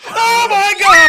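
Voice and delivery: high, full-volume scream of amazement; astonished shout. Real, not acted. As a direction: shriek it at a shocking dice roll. Players erupt at a dice roll.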